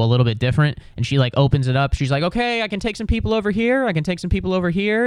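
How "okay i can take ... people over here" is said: high, quick sing-out to a queue; imitated airport worker. Airport lady opening a new lane to the queue, high call-out. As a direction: call people over, pitched well up.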